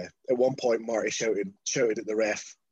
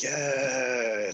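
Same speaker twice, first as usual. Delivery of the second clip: long drawn-out cheer; drawn-out, play-acted triumph; mock victory cheer. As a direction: celebrate the win in one stretched word. Acting out the victory celebration.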